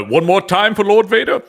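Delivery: high, loud incredulous question; mock disbelief. Co-host plays Vader asking to hear it again, incredulous. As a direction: pitch it up like you can't have heard right.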